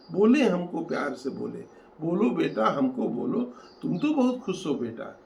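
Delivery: rhythmic, emphatic verse recital; poem recitation. Acted. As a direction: recite it line by line with rising force and pauses. Recites own poem aloud.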